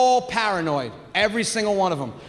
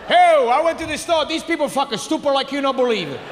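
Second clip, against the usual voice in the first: pissed father. Retold or imitated. Father calls back from the store, comically pissed. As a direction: imitate an irate father on the phone.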